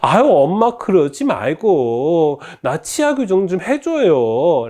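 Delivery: high, drawn-out begging; exasperated plea with stretched words; whining, pleading daughter. Acted. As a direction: beg mom slowly in a high-pitched whine. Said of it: "딸은 다시 한번 말합니다".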